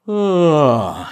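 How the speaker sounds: falling yawn, open throat; demo yawn. Shown as a demonstration. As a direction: yawn downward, loud and open. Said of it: "I'm yawning down".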